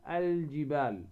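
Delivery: "الجبال" with a held, distinct L in "ال"; lam pronounced clearly. Shown as a demonstration. Tajwid teacher repeating the correct form, clear L in "الجبال". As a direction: let the L ring out in "الجبال". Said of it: "نظهر هذه اللام".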